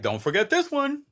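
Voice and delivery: high sly salesman voice; toy company voice. Retold or imitated. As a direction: coax the kids like a sly marketer. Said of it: "they're like".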